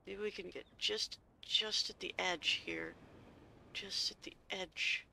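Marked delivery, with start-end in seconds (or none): 3.7-5.1 slow breathless whisper to herself. Real, not acted. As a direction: whisper it slowly while aiming the jump. Aiming a careful jump.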